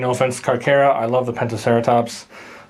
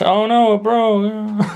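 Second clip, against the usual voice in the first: surprised; 10 semitones higher, 3 dB louder, much slower than usual. Real, not acted. Figure's capture gear snaps off.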